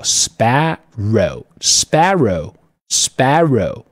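sparrow said slowly, each syllable clear; teacher drilling sparrow, slow and clear; slow pronunciation demo. Shown as a demonstration. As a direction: model sparrow slowly for the class. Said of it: "读作sparrow".

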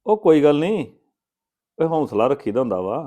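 hearty loud reply. Acted. Man boasting loudly to a caller about money, booming. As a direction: call out ਉਹ ਕੋਈ ਗੱਲ ਨਹੀਂ like a big-hearted boast.

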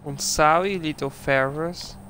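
mock German accent. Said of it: "I don't really know what accent I was going for".

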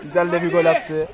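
laughing echo of a comment. Real, not acted. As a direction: repeat it with a laugh. Echoing partner with laugh. (gülerek tekrar)

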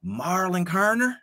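high, slow, drawn-out query of the name in someone else's voice; Dwight Adam impression. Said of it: "I would do him injustice, but I'm gonna try anyway".

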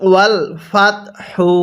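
"হু" with a light breath of air at its start. Shown as a demonstration. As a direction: let air out gently on the h of "হু". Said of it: "এরকমভাবেই পড়বেন". ("হু"-র হা হালকা বাতাস ছেড়ে উচ্চারণ)

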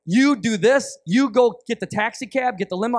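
lightly acted bossy organizer; bossy ruler. Ruler assigning everyone jobs at the bedside, mildly bossy. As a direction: hand out orders with mild authority. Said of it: "they're kinda a little bit bossy".

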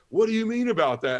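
high, loud mock outrage; indignant retold yell; yelling priest. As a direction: imitate an irate priest, voice pitched right up. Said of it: "he was just yelling and screaming".

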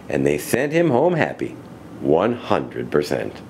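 measured storybook ending, falling low; story narration. A narrator's reading. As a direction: bring the rhyme to a warm, deliberate close.

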